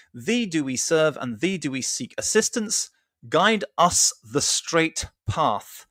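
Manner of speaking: measured, emphatic scripture reading; formal recital of a holy text. Acted. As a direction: read the translated verses out deliberately, phrase by phrase. Reads translated surah aloud.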